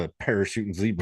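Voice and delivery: lightly put-on Southern accent. Shown as a demonstration. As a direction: try a Southern-accented exclamation. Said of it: "need to do a southern accent".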